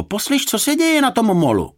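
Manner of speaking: high, loud hail; calling out. A narrator's reading. Lifeguard hailing a man walking past, calling out. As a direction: shout across to a passer-by. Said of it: "Zavolal na muže".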